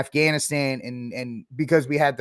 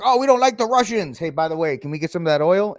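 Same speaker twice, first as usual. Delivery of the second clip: mock Europeans; 3 semitones higher, 4 dB louder, faster than usual. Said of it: "So they're like".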